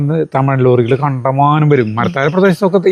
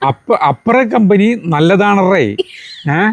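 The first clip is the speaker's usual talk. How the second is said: higher mock Tamil-accented Malayalam, slow in places; thin worker's broken Tamil pitched higher to win over drivers; 4 semitones higher, slower than usual. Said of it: "അപ്പൊ അവരോട് പറയും".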